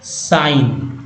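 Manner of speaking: साइन with GN said as plain N; G left silent in साइन. Shown as a demonstration. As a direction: end साइन on a simple N, no G. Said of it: "से न उच्चारण हो रहा है".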